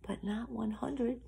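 softly, almost whispered; hushed reveal. A narrator's reading. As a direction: drop to a hush for the bad news. Hushed reveal of missing lamb.

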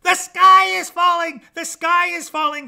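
high, loud clucking alarm; shrieky chicken sounding the alarm; panicked clucking hen. A narrator's reading. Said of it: "clucked Chicken Licken".

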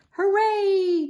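high, loud cheer. A narrator's reading. Girls cheer on seeing the playhouse, cheering. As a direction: cheer it out with a lifted voice. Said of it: "cheered Ashlyn and Camille".

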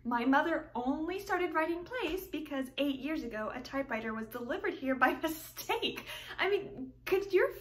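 put-on heartfelt young woman explaining her family; earnest, wistful romantic heroine; tragic heroine sorrow. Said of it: "You Can't Take It With You".

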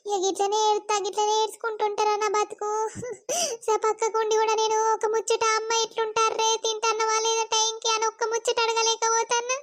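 near tears. Acted. Sapna despairs, near tears.

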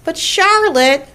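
high, slow, drawn-out plea; protesting little pig. A narrator's reading. Wilbur protests to Charlotte, high slow plea. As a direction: whine it out in a piglet voice.

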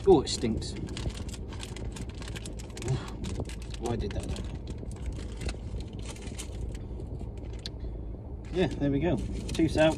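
talking with numb mouth; words slurred from numb face. Real, not acted. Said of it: "side of me face is numb".

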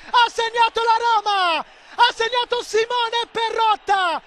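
goal call. Real, not acted. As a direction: celebrate the equalizer at full voice. Equalizer call for Roma.

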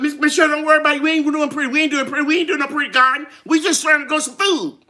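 lightly imitated viewer, rushed patter; Randy Boy. Streamer imitating a viewer telling her not to worry, quick and lightly voiced. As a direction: rattle it off as a quick, light impersonation. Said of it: "I can hear Randy Boy talking about".

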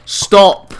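high, loud screamed stop; raging gamer scream. Real, not acted. Yelling at opponent.

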